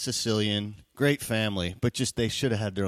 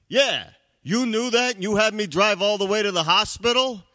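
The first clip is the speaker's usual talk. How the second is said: high, loud mock yell; outraged husband; 11 semitones higher, 6 dB louder than usual. Husband explodes at his wife.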